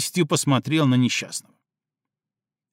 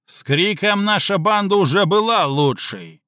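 objecting; 5 semitones higher than usual. A narrator's reading. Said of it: "возразил Слику Крыщак".

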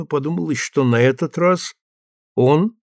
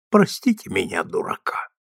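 trembling voice; 6 semitones lower, 3 dB quieter than usual. A narrator's reading. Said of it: "начал он дрожащим голосом".

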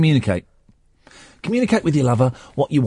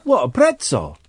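light put-on Italian accent; a touch of Italian on the restaurant name. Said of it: "saying it in an Italian accent".

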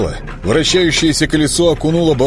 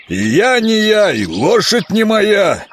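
high, slow protesting creature; swamp creature voice; 9 semitones higher, slower than usual. Acted.

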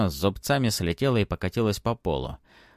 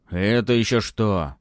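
offended; 5 dB louder than usual. Acted. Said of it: "спросил он с обидой в голосе".

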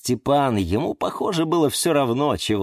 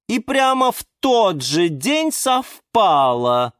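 higher, slow, tempting sales pitch; coaxing liana; 11 semitones higher, slower than usual. A narrator's reading. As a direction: lure him slowly with promises. Liana Diana persuading.

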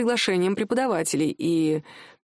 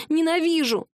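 angry outburst; 6 semitones higher than usual. A narrator's reading. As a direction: spit it out at him. Wife cries out in anger. (жена выкрикивает мужу «Ненавижу!», выше и громче)

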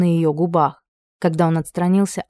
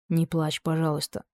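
a hushed, much softer plea; whispered plea; 8 dB quieter than usual. A narrator's reading. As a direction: soothe her gently, barely voiced. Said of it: "прошептал герцог". (тихо, почти шёпотом утешая)

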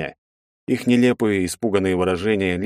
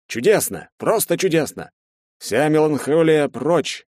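elated Bartynov; 6 semitones higher than usual. A narrator's reading. Bartynov hugs his friends, elated. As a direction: gush with delight. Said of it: "обрадовался Бартынов".

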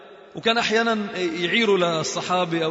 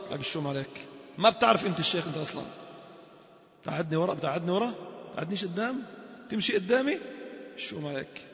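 softer, sulky muttered complaint; mock sulky grumble; 6 dB quieter than usual. Preacher mocking a sheikh who wants the front seat, softly grumbling.

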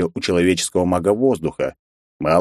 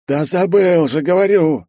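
whining; 11 semitones higher than usual. A narrator's reading. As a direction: whine it out high. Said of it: "снова заскулил Кичендаш". (высокое громкое нытьё)

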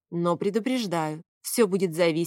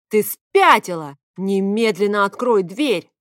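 slow, much louder outraged yelling; furious shout; 8 dB louder, slower than usual. A narrator's reading. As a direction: demand it in a rage. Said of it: "Фавий воскликнул".

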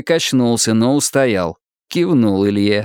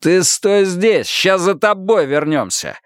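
growled threat; 8 semitones higher than usual. Acted. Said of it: "рыкнул на него человек".

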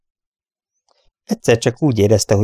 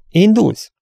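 high, louder surprised question; astonished question; 12 semitones higher, 5 dB louder than usual. A narrator's reading. Dick to his departing friend, astonished. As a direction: ask it in open wonder. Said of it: "kérdezte Dick csodálkozva".

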